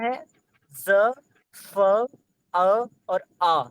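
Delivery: sounding out ज and फ, then अ और आ slowly; voicing each borrowed letter one at a time; demonstrating sounds. Shown as a demonstration. Teacher showing students the sounds taken from English. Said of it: "ये अंग्रेजी से लिया गया है".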